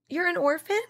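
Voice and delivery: high gasp of mock shock; gasp, then blurt it out fast and high.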